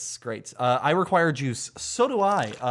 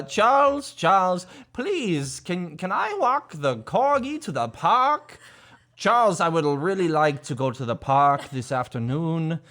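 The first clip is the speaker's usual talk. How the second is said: lightly voiced prim old man begging; old British man. Parent imitates daughter asking to walk the corgi. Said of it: "she talks like an old British man".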